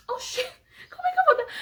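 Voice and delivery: high, laughing disbelief; mock-baffled squeal with laughter; incredulous protest. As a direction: balk at it, voice shooting up into a laugh. Baffled protest to God retold.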